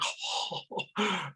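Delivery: mock gasp of fascination; awestruck gasp. Speaker retelling sunlight catching the snot, awestruck gasp. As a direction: breathe out a distracted, wonderstruck "oh". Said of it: "me and my A D H D, the sunlight hits the snot".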